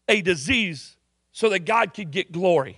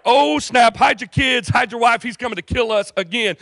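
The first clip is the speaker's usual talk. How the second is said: mock panic; 3 semitones higher than usual. Israelites warning each other as Naaman arrives, mock panic. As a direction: raise the alarm in mild, hammed-up panic. Villagers panic at approaching army.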